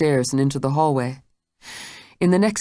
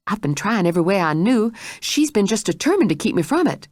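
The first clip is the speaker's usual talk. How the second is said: lightly voiced anxious maid; a hint of a worried housekeeper; 5 semitones higher than usual. A narrator's reading. Maid explains to Blanche in a lightly voiced worried tone.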